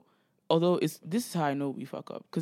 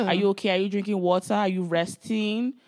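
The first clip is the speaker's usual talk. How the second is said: insistent, higher and louder check-up; acted worried questioning; 4 semitones higher, 5 dB louder than usual. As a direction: fire off concerned questions, dragging the last words. Acting out anxious check on parents.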